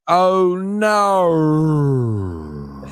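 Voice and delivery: mock stoned Australian accent. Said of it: "I wanna hear a stoned Australian accent".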